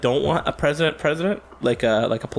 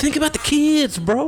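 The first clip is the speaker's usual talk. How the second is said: much higher, louder squeaky mock cry; mock rapper's plea; 4 dB louder than usual. Mocking a rapper's rally to his friend, high and loud. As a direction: ham up the rapper's plea for the kids. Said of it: "quoting a rapper's rally".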